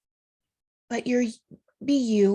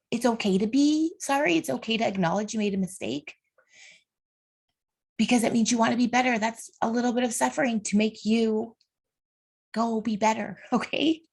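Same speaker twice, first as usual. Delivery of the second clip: higher voice on the edge of real tears; holding back tears; 3 semitones higher than usual. Real, not acted. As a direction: keep going while fighting the urge to cry. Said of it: "because I don't wanna cry".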